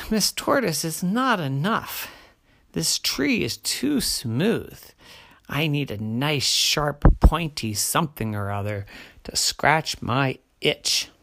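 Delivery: whiny itchy bear, lightly voiced. Bear complains again.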